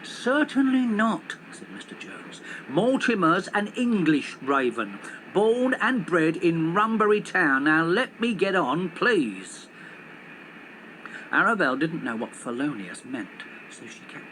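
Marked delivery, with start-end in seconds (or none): 0.0-9.7 put-on slow, firm indignant old cabbie; indignant taxi driver. Taxi driver indignantly defending his English raven to the police. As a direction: insist stiffly, a touch offended. Mister Jones's voice.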